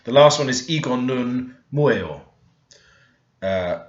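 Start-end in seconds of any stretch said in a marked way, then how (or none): 0.7-2.2 "Igo nun mueo" said slowly and clearly; careful Korean "Igo nun mueo"; slow Korean phrase. Shown as a demonstration. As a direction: model the phrase for learners. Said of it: "So mueo is saying".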